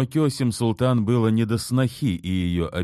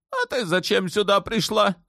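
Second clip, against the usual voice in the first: much higher, sharp yell; sudden yell. A narrator's reading. Sultan yelling at his wife Turhan. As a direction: bark the question at her. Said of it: "внезапно заорал на неё Ибрагим".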